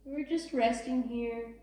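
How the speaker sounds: soft, even yoga guide voice; calm, unhurried relaxation cueing; guided relaxation. Real, not acted. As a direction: ease them into rest, leaving long pauses. Guides rest in child's pose.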